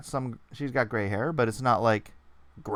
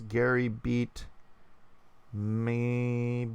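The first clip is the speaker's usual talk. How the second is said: lightly voiced robot, slow and drawn out; slightly robotic, last word held on one note; much slower than usual. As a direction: read it slowly with a hint of machine monotone. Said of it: "he's talking like a robot".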